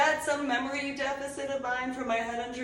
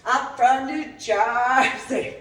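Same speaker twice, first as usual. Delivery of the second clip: loud, slow mocking boast; mocking tough-guy brag; 3 semitones higher, 8 dB louder, much slower than usual. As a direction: stretch it out like a parody of bragging. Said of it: "being like".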